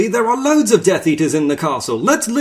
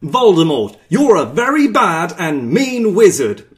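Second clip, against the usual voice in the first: hammed-up denunciation, up high; mock savage; 13 dB louder than usual. Harry confronts Voldemort, mock savage. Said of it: "Harry savagely said".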